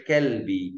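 Kelbi with an ordinary front K; plain unforced K starting Kelbi; normal K sound. Shown as a demonstration. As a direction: say Kelbi with a simple K. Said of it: "isso pronuncia Kaf, normal".

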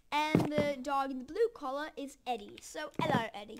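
lightly put-on British accent; a playful hint of British. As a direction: slip casually into a British accent. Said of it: "talking in a British accent".

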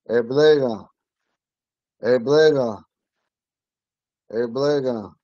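Eblega at normal pace with a falling ga ending; Ponca word. Shown as a demonstration. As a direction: put the word back together at speed. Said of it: "too much of a nasalized A on the end".

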